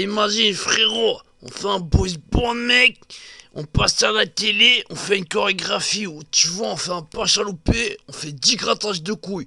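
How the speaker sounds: visionary hype. Acted. Johnny pitching the boy band to his brother, hyped and loud. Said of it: "Johnny devient visionnaire comme ça".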